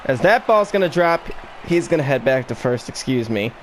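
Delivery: talking through hiccups; hiccuping between words. Real, not acted. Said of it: "you're gonna be hearing a little bit of hiccup power".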